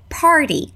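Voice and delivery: "party" with the t tapped like a d; Canadian party. Shown as a demonstration. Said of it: "my accent is actually Canadian".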